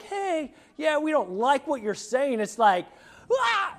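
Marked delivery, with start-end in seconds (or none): 0.0-2.4 high, light, half-laughing mock grumble; a lightly voiced mild protest; mild mock complaint. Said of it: "this is not just like". 3.3-3.7 short high yelp of a scream; high, hammed-up scream; mock scream. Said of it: "I was gonna scream".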